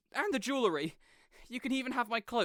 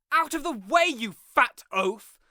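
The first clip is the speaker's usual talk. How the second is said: rude shout; 3 semitones higher, 6 dB louder than usual. Acted. Shoving through a crowd.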